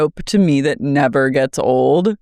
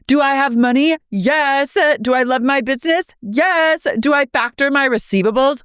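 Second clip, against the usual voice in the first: much higher, fast, smug listing; high, quick parody of a proud boast; imitating Lisa; 9 semitones higher than usual. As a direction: rattle off the questions and answers. Mimicking Lisa's boast.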